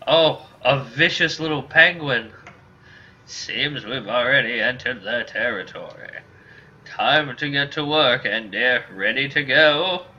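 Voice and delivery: lightly voiced old man, eager for work; a hint of an animated elder; old mercenary. Old mercenary spotting a monster and rallying his partner, lightly aged voice.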